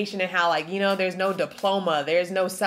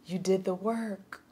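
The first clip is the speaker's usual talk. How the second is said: tearing up; 5 dB quieter than usual. Real, not acted. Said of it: "I'm tearing up".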